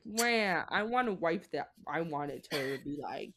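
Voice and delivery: lightly voiced whiny man baby; a hint of a bawling baby on the first word; mock whiny Walter. Imitating a husband as a whiny little man baby, lightly whiny. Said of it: "Walter is a whiny little man baby".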